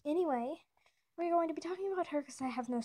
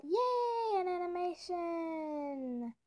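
excited yay; 4 semitones higher, much slower than usual. Real, not acted. Announces the animation.

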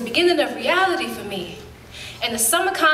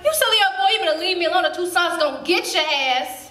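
put-on high-pitched shout at a pestering boy, settling down by the end; shouted retort; 4 semitones higher, faster than usual. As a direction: yell him off, then keep warning him. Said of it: "And I shouted".

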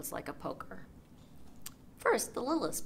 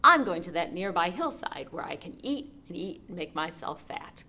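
louder goat voice; 6 dB louder than usual. Acted. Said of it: "almost as loud as the troll's".

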